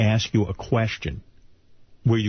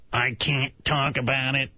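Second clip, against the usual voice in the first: 1 mock secretive; slower than usual. Voicing Eric, slow and withholding.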